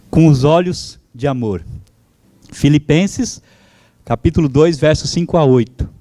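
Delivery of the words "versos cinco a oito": usual speaking voice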